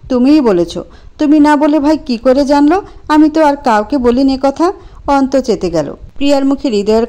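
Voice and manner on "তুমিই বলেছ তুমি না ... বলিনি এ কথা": angry insistence. Acted. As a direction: hammer it home. Priya insists angrily.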